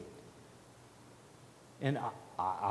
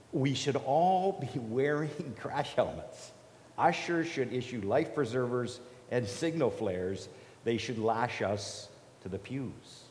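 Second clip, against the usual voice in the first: reading Annie Dillard. Acted. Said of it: "this is Annie Dillard".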